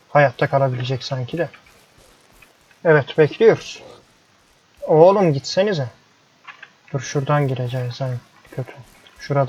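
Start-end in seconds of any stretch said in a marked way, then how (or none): 2.8-5.9 exasperated. Real, not acted. Player fed up with animals blocking the barn door, slow exasperated plea. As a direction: drag it out, begging them to move.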